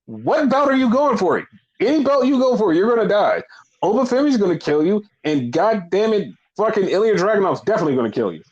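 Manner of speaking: high-pitched mock disbelief; exasperated rant. Fan warning wrestler off another belt, exasperated. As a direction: scold him in comic alarm, pitch way up.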